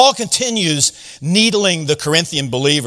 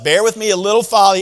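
fast, teasing jab; needling paraphrase; 2 semitones higher, faster than usual. Shown as a demonstration. Paul needling the Corinthians, fast and teasing. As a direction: rattle it off like a playful poke. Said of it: "I'm gonna needle you again".

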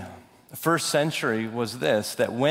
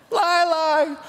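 put-on much higher, louder toddler squeal; be the excited little boy shouting lai; toddler imitation; 14 semitones higher, 5 dB louder than usual. Toddler answering the lion video.

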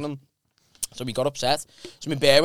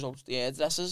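sheepish excuse; 2 semitones lower, 10 dB quieter than usual. Retold or imitated. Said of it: "He goes".

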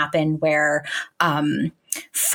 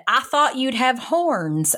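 slow, higher mock Texan drawl; Texan accent; 5 semitones higher, slower than usual. Roommate Lacey from Texas, in a mock Texan accent. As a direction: put on a broad Texas accent, mocking. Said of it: "this is my best accent I could possibly muster".

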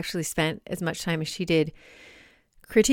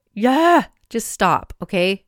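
exasperated stop; 2 semitones higher, 6 dB louder, slower than usual. Real, not acted. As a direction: snap at her racing brain to stop. Telling her own brain to stop.

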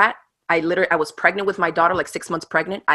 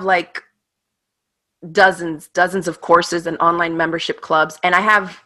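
ordinary delivery

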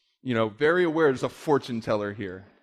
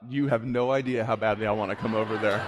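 laughing; 3 semitones lower than usual. Retold or imitated. Laughing at his inner thought.

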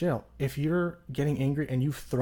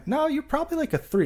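skeptical inner voice; 14 semitones higher than usual. Retold or imitated. Answering his own inflated rating.

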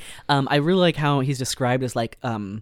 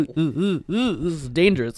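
gossiping crowd; 3 semitones higher than usual. Retold or imitated. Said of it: "everyone's just like".

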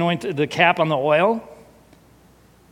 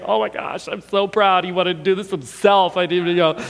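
proud gushing parent; 3 semitones higher than usual. Retold or imitated.

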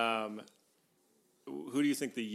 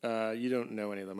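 ordinary delivery

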